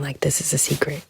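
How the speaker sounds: hushed, half-whispered confiding; whispering. Real, not acted. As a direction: whisper it like a secret. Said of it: "I'm whispering".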